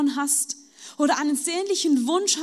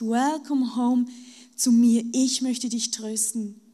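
gentle welcome; 3 semitones lower than usual. Acted. Jesus speaks comfort to listener. (leise, langsam, tröstend)

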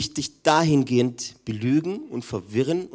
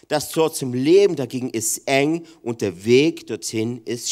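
scripture reading; 4 dB louder than usual. Acted.

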